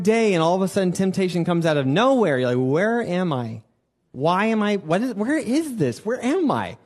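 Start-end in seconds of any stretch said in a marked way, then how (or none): 2.7-6.8 mock confused. Temptation hits, confused inner voice.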